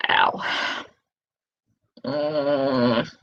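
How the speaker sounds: low groan of tooth pain; a soft hurting moan. Real, not acted. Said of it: "my face hurts a lot".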